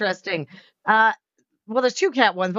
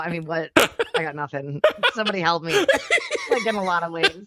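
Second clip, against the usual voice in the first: laughing. Real, not acted. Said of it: "He's got the giggles".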